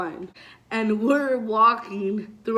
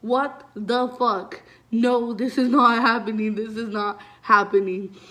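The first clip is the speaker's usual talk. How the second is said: panicking; 4 dB louder than usual. Retold or imitated. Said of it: "I'm fucking losing my brain".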